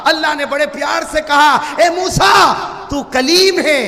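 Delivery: high ringing call to Moses; impassioned preaching. Acted. Preacher voicing Allah answering Moses, ringing proclamation. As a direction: proclaim it with oratorical force.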